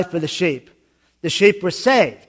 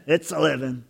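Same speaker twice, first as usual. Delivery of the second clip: Daffy Duck; 3 semitones lower, 6 dB quieter than usual. Retold or imitated. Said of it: "he's Daffy Duck going".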